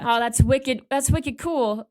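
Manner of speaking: slow, drawn-out Boston "wicked cool"; New England wicked. Retold or imitated. Friend telling a podcast host, drawn-out Boston wicked. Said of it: "I grew up definitely saying wicked".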